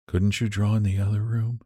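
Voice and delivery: sick Jonesy, coldly questioning her friend. Acted. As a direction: ask it coolly, keeping her at a distance. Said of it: "asked Jonesy coldly".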